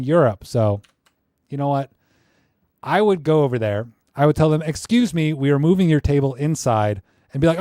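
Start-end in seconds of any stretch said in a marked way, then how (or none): 4.6-7.0 loud mock-official order; put-on authoritative request; pretend bossy announcement. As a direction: announce it firmly, as if clearing them out. Acts out ordering tourists away.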